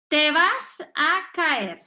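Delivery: slow, drawn-out prophecy of doom; dramatic warning. Acted. Parent warns a child of a fall, dramatic. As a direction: stretch out an ominous warning. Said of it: "¡qué drama!".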